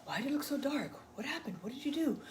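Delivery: imitating Jason. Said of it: "Jason later on would be like".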